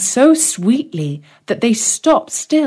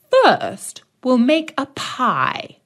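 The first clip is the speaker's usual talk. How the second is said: much higher, slow crone's voice; old witch; 5 semitones higher, slower than usual. Acted. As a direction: relish it like a hungry witch. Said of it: "said the old witch".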